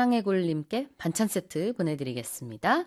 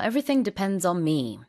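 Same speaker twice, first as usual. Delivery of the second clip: slow model sentence; much slower than usual. Shown as a demonstration. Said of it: "repeating the learner's sentence".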